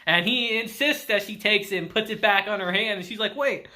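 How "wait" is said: imitating rising, high-pitched bewilderment; mock freaking out. She questions herself after rejecting him, mock freak-out. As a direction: act out a flustered inner panic, lightly. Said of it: "she starts freaking out to herself".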